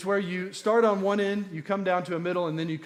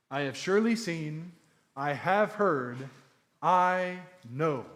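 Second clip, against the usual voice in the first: "seen", "heard", "know" each leaned on; rising emphasis, surely seen, heard, know; verbs stressed; slower than usual. Shown as a demonstration. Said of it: "This speaks to the omniscience of God".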